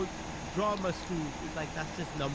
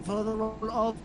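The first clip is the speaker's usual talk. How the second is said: mock earnest auditioner; 3 semitones higher, 8 dB louder than usual. Mock audition intro to teacher.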